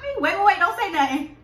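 talking while eating; biting into food. Real, not acted. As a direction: mouth partly full. Seen 0: Woman talks with open mouth first, bites wrapped pickle from 3.0s.

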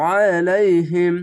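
আলাইহিম opens with a thick ain pressed from the throat; throaty heavy ain. Shown as a demonstration. Teacher shows the heavy ain in আলাইহিম. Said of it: "আইনটিকে মোটা করে গলা চিপে বলবেন".

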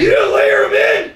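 high drawn-out shout. Real, not acted. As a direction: yell it to win the argument. Insisting over a friend.

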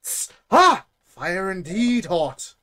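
high, slow, grunting caveman marvelling at fire. Acted. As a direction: ham up a dim caveman burning himself.

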